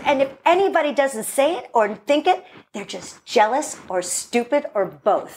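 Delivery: lightly voiced protective mom, emphatic; mommy mode. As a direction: insist like a reassuring mother. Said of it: "My mom goes into mommy mode".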